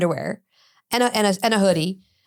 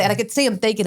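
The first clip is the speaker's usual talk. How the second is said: normal talking voice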